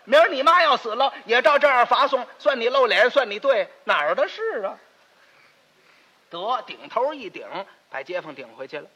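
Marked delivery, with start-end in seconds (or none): 0.0-3.7 sharp telling-off. Acted. Telling off the neighbour.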